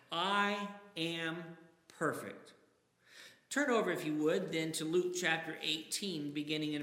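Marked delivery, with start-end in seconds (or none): 0.1-2.5 pompous claim. Shown as a demonstration. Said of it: "That pompous attitude, that egotistical attitude".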